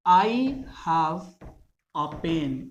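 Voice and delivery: a said as a short schwa; weak form a. Shown as a demonstration. Teacher demonstrating the weak form of a, uh pen. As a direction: say a pen with a reduced uh. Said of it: "इसे पढ़ेंगे अ".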